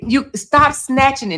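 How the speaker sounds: lightly voiced nurse telling her off; scolding nurse.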